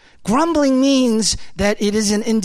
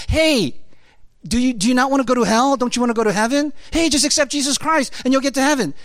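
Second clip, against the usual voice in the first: higher-pitched, quick mock salesman's invitation; mock gospel pitch; 4 semitones higher, faster than usual. Preacher mimics how the gospel gets pitched, glib mock pitch. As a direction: imitate an eager pitch for easy salvation.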